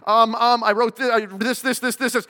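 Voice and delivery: nervous stammer. Retold or imitated. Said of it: "poor freaked out student goes".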